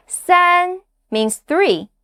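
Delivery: 三 held high and level, said slow; flat first tone. Shown as a demonstration. Teacher models a flat, high 三 for learners. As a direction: keep 三 high and flat, easy and chill. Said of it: "It's a flat tone, easy and chill".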